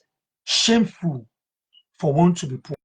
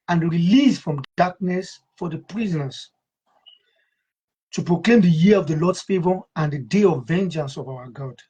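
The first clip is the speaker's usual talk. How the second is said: measured, solemn Bible reading; scripture reading. Acted. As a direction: read the verse with reverence. Reads scripture aloud.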